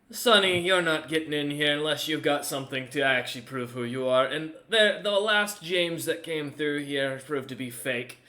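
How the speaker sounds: lightly voiced old gatekeeper, firm warning; stern old guard. Guard warns James about impostors, stern. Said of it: "and looks at you and goes".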